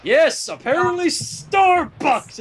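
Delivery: slow words through laughter; laughing. Real, not acted. Reader admitting the coffee joke, laughing. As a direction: laugh while confirming it.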